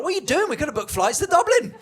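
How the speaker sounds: mock exasperation. Scolding someone in lingerie.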